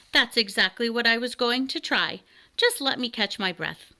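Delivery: a touch of irritation; mildly cross, slightly out of breath; somewhat cross dragon. Acted. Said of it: "said the dragon somewhat crossly".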